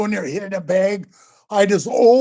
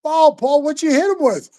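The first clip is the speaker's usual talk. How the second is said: amazed; 6 semitones higher than usual. Retold or imitated. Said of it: "and I go".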